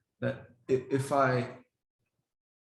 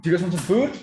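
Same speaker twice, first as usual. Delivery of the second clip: much louder and higher, rising excited offer; hyped food call; 5 semitones higher, 8 dB louder, faster than usual. Shown as a demonstration. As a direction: pump the dogs up before dinner. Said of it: "maybe I'll give you an example".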